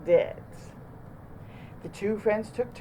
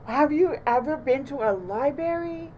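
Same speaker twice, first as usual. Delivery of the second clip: Bunny voice; 7 semitones higher than usual. A narrator's reading. Bunny voiced in read-aloud.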